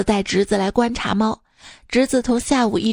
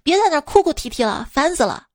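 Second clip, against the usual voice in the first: higher, quick irritated outburst; half-hearted retold shout, fed up; mild mock yell; 5 semitones higher than usual. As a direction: imitate snapping at a crying wife, fast and raised in pitch. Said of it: "就吼了她一句".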